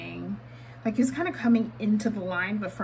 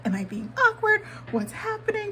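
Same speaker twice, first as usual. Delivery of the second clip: flustered; 12 semitones higher than usual. Retold or imitated. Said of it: "I was like".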